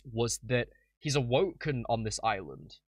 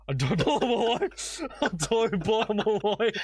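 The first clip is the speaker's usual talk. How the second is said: laughing through a put-on British accent, higher; mock British accent; 8 semitones higher, 3 dB louder than usual. Teasing a friend by quoting his clip in a laughing British accent. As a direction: ham up a British accent while giggling. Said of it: "that you were doing British".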